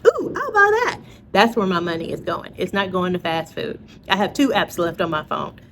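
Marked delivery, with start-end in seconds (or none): 0.1-1.0 high-pitched mock-eager squeal; tempted shopper. Reacting to a sales email, hammed-up excitement. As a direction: play up the impulse buy. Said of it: "saw an email and was like".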